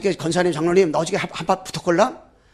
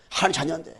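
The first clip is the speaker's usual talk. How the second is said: ordinary talk, nothing marked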